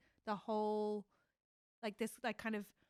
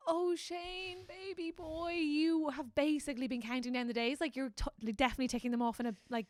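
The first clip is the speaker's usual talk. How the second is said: teasing Shane; 3 semitones higher, 4 dB louder than usual. Retold or imitated. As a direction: coo at him like a fond friend. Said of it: "And you're like".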